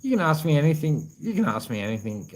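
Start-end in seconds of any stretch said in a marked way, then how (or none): 1.2-2.3 lower, softer repeat of the offer. Real, not acted. Repeating the offer to Eli, lower and softer. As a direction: ease off and say it again gently. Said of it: "brother Eli".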